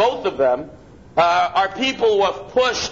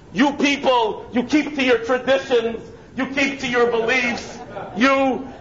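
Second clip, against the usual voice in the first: mock sweet praise from the woman; gushing apology; 4 semitones higher than usual. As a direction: gush with sudden admiration. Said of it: "she responds".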